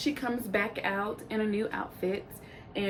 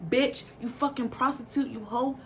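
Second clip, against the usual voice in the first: imitated angry insults, slightly raised voice; pissed off; 3 semitones higher than usual. The speaker insulting an opponent on stage, pissed off. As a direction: pile on the insults, mildly heated. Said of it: "Ballistic is pissed off".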